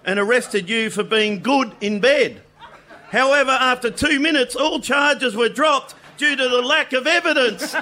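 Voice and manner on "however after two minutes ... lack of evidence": laughing through the punchline; cracking up while telling it. Real, not acted. Laughing at his own punchline.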